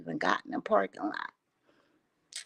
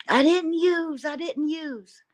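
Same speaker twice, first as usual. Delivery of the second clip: imitated denial; 6 semitones higher than usual. Mike denying it, voiced.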